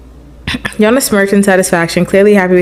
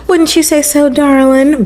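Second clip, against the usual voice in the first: higher-pitched country twang; country accent; 6 semitones higher than usual. Acted. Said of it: "Why am I country now?".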